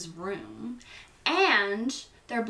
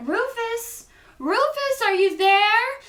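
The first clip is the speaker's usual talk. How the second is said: high, loud calling into the room; 14 semitones higher, 10 dB louder than usual. Acted. Meg calls for her missing cat, high loud calling. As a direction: call the cat from the doorway, much higher.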